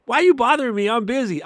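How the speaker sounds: high, loud, irritated mock yell; annoyed shout. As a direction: snap back like you've been bothered mid-task. Voicing someone annoyed at interruption.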